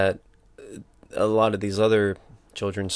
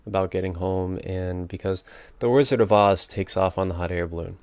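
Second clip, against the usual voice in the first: mouth full. Real, not acted. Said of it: "I also have a peppermint in my mouth".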